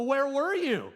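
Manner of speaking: loud, high demand; father demanding where his son was hiding; angry demand. Retold or imitated. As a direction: bark the question at the child.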